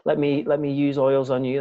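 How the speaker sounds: begging. Shown as a demonstration. Host demonstrating the wrong way to ask, begging and pleading. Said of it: "You're not begging them".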